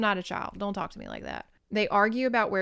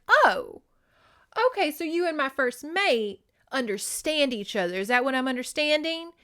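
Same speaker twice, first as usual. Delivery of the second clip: higher, pointed mock suspicion; acted jealous realization; 5 semitones higher than usual. Mike thinks she loves his friend, acted affront.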